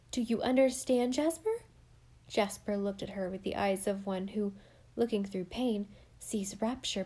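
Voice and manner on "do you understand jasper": joyful confession. Acted. Alice joyful confession, higher.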